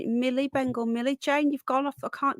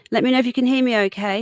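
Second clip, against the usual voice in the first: louder and faster, clearing the voice; louder, faster repeat; 7 dB louder, much faster than usual. Real, not acted. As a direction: say it again, louder and quicker. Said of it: "excuse me".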